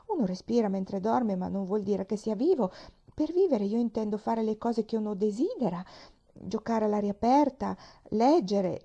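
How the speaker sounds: a hint of a chatty young girl; eager little girl. Pollyanna answers her aunt, eager and a little flustered.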